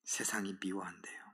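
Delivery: unvoiced hushed whisper. Preacher to congregation, whispering the world's hatred. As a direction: breathe it as a secret.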